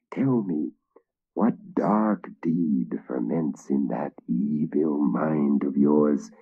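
a hint of a menacing rasp. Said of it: "he rasped in the third knight's ear".

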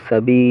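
সাবি with short "sa" and held "bee"; one-alif lengthening. Shown as a demonstration. Teacher explains the ya after zer, সাবি with drawn-out end. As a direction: stretch only the final vowel of সাবি. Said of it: "এক আলিফ টেনে পড়তে হবে".

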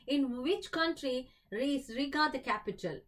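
drawn-out quizmaster reading; slow, deliberate game-show question; slow quiz question read. Acted. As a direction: read the question slowly and clearly. Quiz host reads question aloud.

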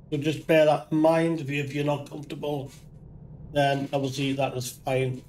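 hoarse, squeaky voice from flu; croaky voice. Real, not acted. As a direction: talk through a sore, flu-struck throat. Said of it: "the squeaky, croaky voice".

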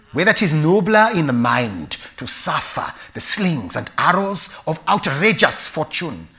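slow, loud, lyrical East African delivery; East African accent. Shown as a demonstration. Actor tries Hamlet in his East African accent, lyrically. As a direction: declaim Shakespeare in a measured East African accent. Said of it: "Let me do it in an East African accent".

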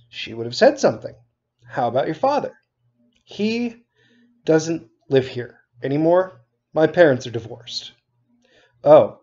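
steady read-aloud narration, characters lightly voiced; teacher reading a novel aloud to students; story narration. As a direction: read the chapter to your class like a storyteller. Teacher reads novel aloud to class.

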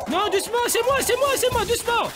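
high, pleading call; calm the animal down loudly. Real, not acted. Calming his frightened puma. (appel pressant)

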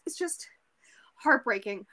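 a sad, breathy whisper. Real, not acted. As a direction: let the word fall to a whisper. Sad reaction to the love story.

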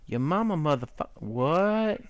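playful outraged what; mock outrage. Real, not acted. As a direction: fake offended at the game. Mock indignant.

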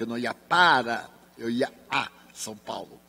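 "para" and "a" each set apart by a pause; stress on PARA and A. Shown as a demonstration. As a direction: contrast "para" with "a" as careful corrections. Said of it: "Eu adoro preposições".

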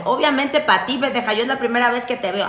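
mock retort. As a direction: throw it back like a sassy follower. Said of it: "Dirás".

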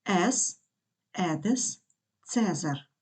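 "ес, едес, цезар" with a plain E for the digraph; teacher's model reading of "ес, едес, цезар" with E. Shown as a demonstration. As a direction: say "ес, едес, цезар", each digraph one E sound. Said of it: "Читаємо як е".

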